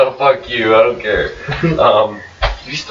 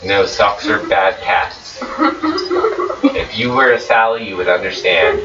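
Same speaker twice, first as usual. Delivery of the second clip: slow; slower than usual. Pretend. Silly mock-solemn pronouncement.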